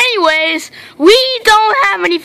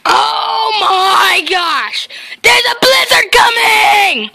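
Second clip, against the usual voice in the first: alarmed cry; 5 semitones higher, much slower than usual. Acted. Panic at coming blizzard.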